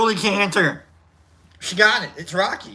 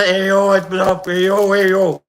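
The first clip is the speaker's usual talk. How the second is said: Rocky voice; 4 dB louder than usual. Pretend. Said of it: "trying to do a Rocky".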